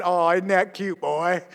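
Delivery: low, soft fatherly indulgence; God's fond reply. Retold or imitated. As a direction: pat a child on the head with your voice. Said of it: "he pats me on the head and said".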